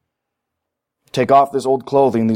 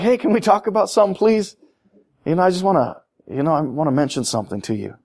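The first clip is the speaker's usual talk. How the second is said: gentle request; 3 dB quieter than usual. Retold or imitated. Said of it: "Just be like".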